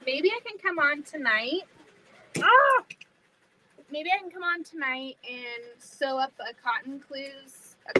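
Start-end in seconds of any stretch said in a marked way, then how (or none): 2.4-2.8 short, high, loud "ah"; sudden yelp. Real, not acted. Sudden cry while working.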